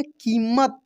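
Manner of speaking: कीमत with the ee held long. Shown as a demonstration. Teacher answering his own question, कीमत with long ee. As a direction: hold the first vowel of कीमत. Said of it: "long pronunciation होता है".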